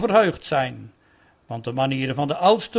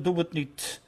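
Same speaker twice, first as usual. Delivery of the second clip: devil's whisper; 8 dB quieter than usual. A narrator's reading. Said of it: "Alleen de duivel fluisterde".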